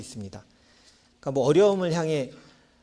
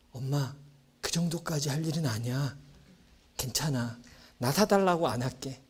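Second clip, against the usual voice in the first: put-on sheepish child; 5 dB quieter than usual. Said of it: "이렇게 얘기할 거예요".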